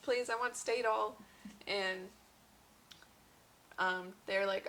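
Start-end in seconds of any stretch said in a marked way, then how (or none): 0.0-1.1 loud, high begging for pain relief; desperate pleading. Retold or imitated. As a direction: plead louder and higher. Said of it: "I was like".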